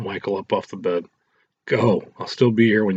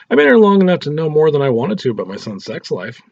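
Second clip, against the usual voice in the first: scolding mother; 7 semitones higher, 5 dB louder than usual. Acted. Mother scolds caught son.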